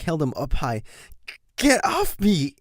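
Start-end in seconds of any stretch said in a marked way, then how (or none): 1.6-2.5 cried out. Acted. Pinned colt to his brother, high struggling cry. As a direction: shout as you fight the grip. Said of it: "he cried".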